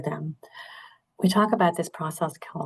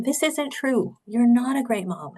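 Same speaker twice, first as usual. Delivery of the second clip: higher, sharp retold outburst at mom; retold angry rant; 6 semitones higher than usual. Daughter ranting at her mother, crumpling the drawing, hurt higher outburst. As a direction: relive the rant, bitter and hurt. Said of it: "went into a bit of a rant myself".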